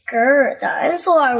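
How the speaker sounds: playful little growl; mock dinosaur roar. Little George roaring at Richard, a mock dinosaur growl. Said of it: "roars George".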